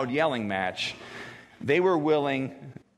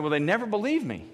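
"never believe me" pitched much higher, exasperated; 7 semitones higher than usual. Retold or imitated. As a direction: lift it up in exasperation. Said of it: "So God's saying that".

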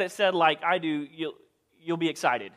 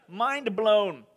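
ordinary talk

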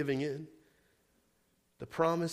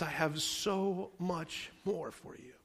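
tender voice of God; 5 dB quieter, slower than usual. Pretend.

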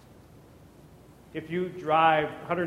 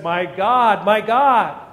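anguished cry; 2 semitones higher, 9 dB louder, slower than usual. Retold or imitated. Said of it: "He says".

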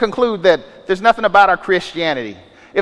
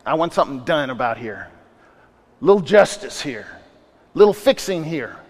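mock demanding believer; 6 semitones lower, 4 dB quieter than usual. Voices believer nudging God off throne.

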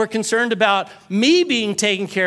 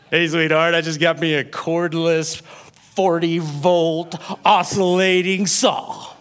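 lower, gushing husband voice; lower-voiced excited husband; 7 semitones lower than usual. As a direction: brag about the new saw. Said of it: "husband comes home ecstatic".

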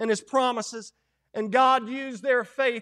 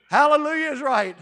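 loud exclamation; 4 semitones higher, 10 dB louder than usual. Real, not acted. Preacher exclaims.

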